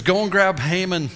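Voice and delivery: high, loud order; king ordering his servant to fetch Haman; royal command. Retold or imitated. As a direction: bark the king's order.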